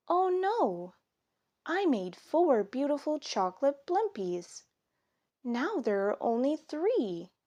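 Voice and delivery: a mom counting missing treats; dismayed Mama. Acted. Mama discovering a blimpie gone, dismayed. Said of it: "Mama said".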